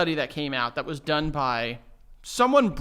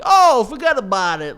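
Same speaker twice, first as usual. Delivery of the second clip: louder, higher New Yorker "forget about it"; New York accent; 5 semitones higher, 8 dB louder than usual. Retold or imitated. Showing why people love New Yorkers, New York accent. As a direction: throw out a classic New York line. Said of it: "because of the accent".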